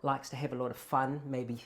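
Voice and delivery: lightly voiced know-it-all, loose and casual; loose fun-lover. Shown as a demonstration. Actor hopping between accent personalities, loose know-it-all. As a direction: slip into someone loose who likes fun. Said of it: "right now, I'm just going into the headspace".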